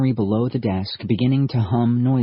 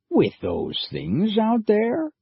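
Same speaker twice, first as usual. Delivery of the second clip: nervous; 12 semitones higher, slower than usual. Acted. Whitmore nervous about dinosaurs.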